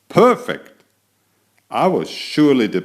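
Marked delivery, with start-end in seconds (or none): 0.1-0.8 delighted. Acted. Cat admiring his tail.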